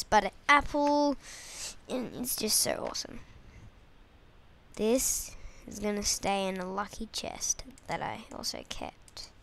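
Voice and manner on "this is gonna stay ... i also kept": hushed secret whisper; soft unvoiced whisper. Real, not acted. Whispering to camera about chest.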